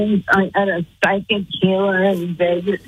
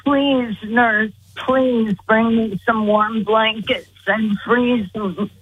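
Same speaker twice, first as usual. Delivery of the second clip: begging; slower than usual. Retold or imitated. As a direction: beg slowly, fading at the end. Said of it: "I'm begging her".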